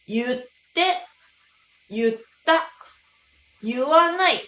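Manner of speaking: 言って, 言った, 言わない read with yu, as yutte, yutta, yuwanai; wrong readings. Shown as a demonstration. Teacher warning learners off yu forms, 言って as yutte. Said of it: "とは読んではいけないんです".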